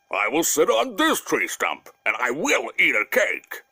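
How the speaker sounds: lightly voiced weary bear; a bear ready for a rest and a snack; tired bear. Bear on the tree stump tempted by cakes, lightly voiced weary bear. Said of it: "sat, and said".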